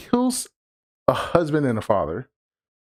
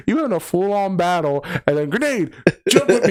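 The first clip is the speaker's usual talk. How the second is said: mock urgent; 5 semitones higher than usual. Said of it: "I was like".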